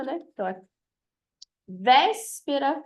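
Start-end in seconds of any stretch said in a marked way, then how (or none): 1.7-2.8 "véspera" slowly, VÉS long and strong; stress on antepenultimate. Shown as a demonstration. Teacher showing a proparoxytone, VÉS stressed in véspera. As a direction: stretch the first syllable VÉS of véspera. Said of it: "então, antepenúltima".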